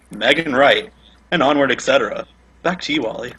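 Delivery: radio voice. Shown as a demonstration. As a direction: announce it like afternoon radio. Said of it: "put on your radio voice".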